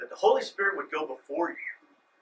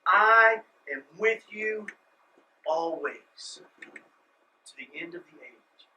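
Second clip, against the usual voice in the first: tender promise; 4 dB louder, slower than usual. Retold or imitated. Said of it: "he says in verse twenty".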